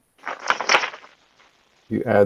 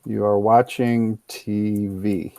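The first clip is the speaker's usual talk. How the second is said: slow correct model; 2 semitones lower, 4 dB quieter, slower than usual. Shown as a demonstration. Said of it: "How do we change?".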